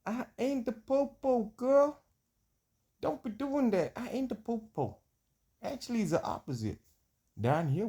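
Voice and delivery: high, slow put-on Black American accent, y'all and ain't; put-on American drawl. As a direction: play a loud American homeboy in a put-on accent. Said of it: "when I get this here accent".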